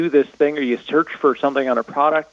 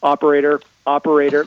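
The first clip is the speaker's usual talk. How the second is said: imitating a frustrated caller, slightly raised; half-hearted yell into the phone; mock yell at a phone menu; 3 dB louder, faster than usual. Caller yelling at an automated menu, mock yell. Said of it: "you're just yelling into it going".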